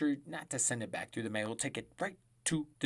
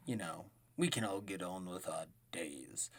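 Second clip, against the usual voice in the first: soft whispered aside; whispering; 6 semitones lower, 7 dB quieter than usual. Real, not acted. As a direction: whisper it like a secret.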